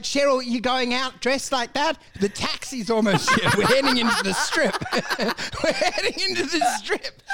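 high, giggling hurry-up; laughing host. Acted. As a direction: rush Cheryl out, cracking up.

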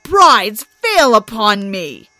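rising furious complaint; angry Thor. Acted. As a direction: rage at the humiliation. Thor protesting mockery.

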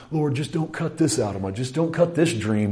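hushed, imitated plea to God; pleading prayer. Believer begging the Lord to spare a dream, pleading prayer. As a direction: beg softly, as if privately praying. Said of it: "then we go to the Lord. I used to do this".

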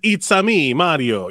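lightly voiced Mario, a hint of the cartoon accent. Mocking a stereotyped audition script with a light Mario voice. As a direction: toss off a quick Mario line. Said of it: "It actually says".

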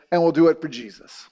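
whispered, sly mock voice. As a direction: hiss it like a smug hypocrite. Mocking people excusing their violence.

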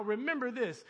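usual speaking voice

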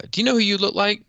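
high mocking imitation of the wife; mocking her voice. Retelling the friend's wife at the reunion, high mimicking voice. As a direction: squeak it out in a high mock voice. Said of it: "she was like".

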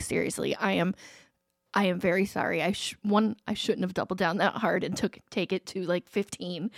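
soft, low retold contrition; sincere apology. Mom apologizing to daughter for doubling down, softly sincere. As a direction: own up quietly and earnestly.

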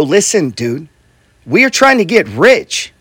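slow, deliberate announcement, rising in pitch; emphatic declaration. Acted. Boss stops someone in a meeting to declare it, slow and emphatic. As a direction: spell it out slowly and earnestly.

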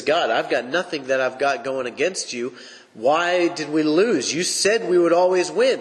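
a bewildered plea that rises to the end; confused Joshua. Retold or imitated. Preacher voicing Joshua asking God why they lost, confused pleading. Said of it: "Joshua's confused".

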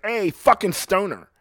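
high, strained yell at a loiterer; acted yell. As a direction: yell it high, like chasing someone off. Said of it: "I might yell at you".

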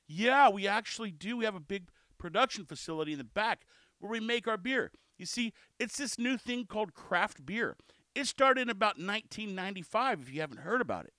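lightly sarcastic explaining; mildly cheeky, as if breaking old news to a newcomer; a little cheeky. Acted. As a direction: explain the obvious with a touch of cheek. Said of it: "that's just me being a little bit cheeky".

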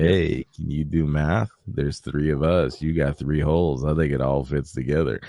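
a hint of leering menace, unhurried; creepy football player. Football player up behind the cornered girl, mildly creepy. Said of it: "gets all creepy and up behind her".

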